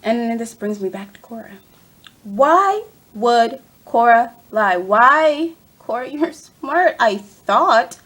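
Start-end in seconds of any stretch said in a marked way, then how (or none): 2.2-8.0 loud, drawn-out demand for answers; exasperated scolding. Pretend. Fan scolding Cora for lying, exasperated. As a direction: draw it out in playful outrage.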